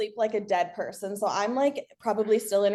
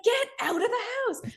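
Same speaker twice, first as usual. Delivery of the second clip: high, fast urgent command; firefighter voice; 14 semitones higher, faster than usual. Retold or imitated. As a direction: order them out, half laughing. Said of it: "It's like the firefighter voice".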